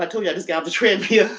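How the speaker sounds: winded, fast and breathy; out of breath. Real, not acted. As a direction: still catching breath. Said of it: "I'm out of breath".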